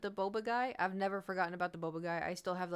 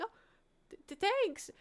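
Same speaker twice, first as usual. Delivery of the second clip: high squeaky stammer; flustered thanks; 14 semitones higher, 3 dB louder than usual. Retold or imitated. Streamer thanking a fan, flustered.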